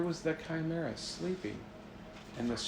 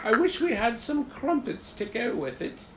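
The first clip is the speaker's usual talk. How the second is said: mock-refined tea drinker; 9 semitones higher, 4 dB louder than usual. Tea party guests praising tea, mock-refined high voice. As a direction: ham up proper tea-party manners.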